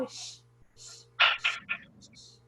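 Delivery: long whispered shh, like falling rain; hushing sh sound. Shown as a demonstration. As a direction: breathe out the sound of X as a soft hiss. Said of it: "por causa desse som".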